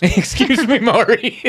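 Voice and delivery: high, prim and polite voice; overly polite. Pretend. Timid guest asking the dealer Maurice politely. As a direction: ask ever so politely. Echoing the polite bit laughing.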